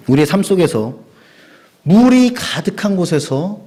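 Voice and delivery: 천천히 힘주어 선포하는 설교; 회중을 향해 강하게 권면. Real, not acted. (성도에게 강하게 권면하는 설교 선포)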